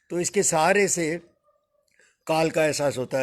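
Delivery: ordinary delivery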